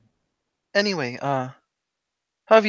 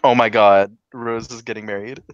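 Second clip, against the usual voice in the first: happy; 5 semitones lower than usual. Retold or imitated. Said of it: "she's really happy".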